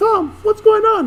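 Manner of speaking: very high-pitched, slow, drawn-out voice. Recalling how a guy named Luigi always talked: Luigi's very high voice. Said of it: "he had a very high-pitched voice".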